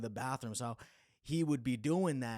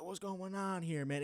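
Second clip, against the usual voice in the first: mock bewildered; 7 semitones higher than usual. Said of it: "He's like".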